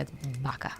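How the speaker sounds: vaca with a soft Spanish b, said quietly; Spanish-accented vaca. Shown as a demonstration. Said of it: "with a proper Spanish accent".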